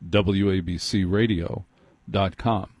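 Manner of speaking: measured, weighty delivery, sinking a little. Shown as a demonstration. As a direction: give the station name solemn weight. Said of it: "I lower my voice".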